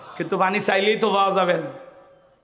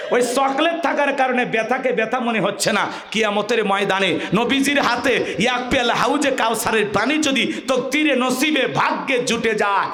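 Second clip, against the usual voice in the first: higher, sustained sermon delivery; fervent preaching; 4 semitones higher than usual. Real, not acted. Preacher likens chocolate to the Prophet's cup, fervent preaching. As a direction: drive the lesson home with fervour.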